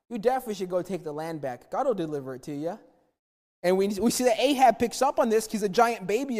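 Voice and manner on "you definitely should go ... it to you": sarcastic. Retold or imitated. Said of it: "He was saying it very sarcastically".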